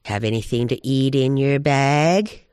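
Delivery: fish for food, voice sliding upward; wheedling coyote. Acted. Hungry Coyote asks Badger about his bag, wheedling.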